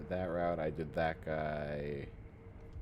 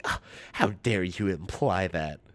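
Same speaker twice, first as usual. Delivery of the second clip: offended grandma; 4 dB louder than usual. Retold or imitated.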